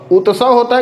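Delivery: उत्सव as "uta-sav", full त; wrong full t. Shown as a demonstration. Teacher poses the wrong option, full t. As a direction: put a vowel after त in उत्सव. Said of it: "उत्सव नहीं होता".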